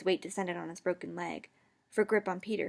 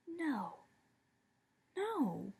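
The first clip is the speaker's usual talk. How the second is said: gulping; 6 semitones higher, 8 dB quieter than usual. A narrator's reading. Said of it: "I gulped".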